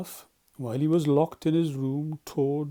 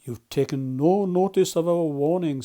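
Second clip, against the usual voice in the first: loud, severe reproach; 4 semitones higher, 8 dB louder than usual. Acted. Badger severely scolds the reckless Toad. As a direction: scold him sharply. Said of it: "said Mister Badger severely".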